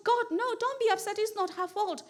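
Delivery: soft, quick talking-to of oneself; acted quiet inner voice; self-soothing. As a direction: soothe yourself under the upset, softly. Acted inner voice calming the upset.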